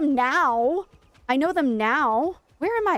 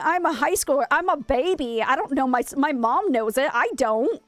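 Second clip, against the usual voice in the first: flustered protest; 2 semitones higher than usual. Retold or imitated. Acts out her flustered teenage protest.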